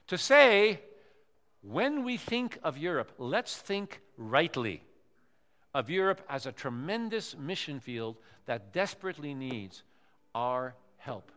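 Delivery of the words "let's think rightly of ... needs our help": solemn sermon close. Acted. Sermon closing.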